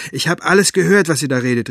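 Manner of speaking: put-on girl loudly confronting them; calling out. A narrator's reading. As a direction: call out accusingly to the adults. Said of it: "rief sie".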